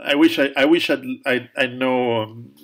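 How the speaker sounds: ordinary delivery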